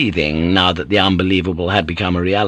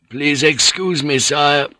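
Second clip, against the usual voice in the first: higher-voiced old councillor, composed; calm; 6 semitones higher, slower than usual. A narrator's reading. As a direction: excuse yourself calmly to your lord. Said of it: "said calmly".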